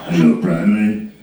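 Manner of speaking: a lightly mocked rock singer's greeting; hint of a mumbling rock star. The rock singer picks up the phone.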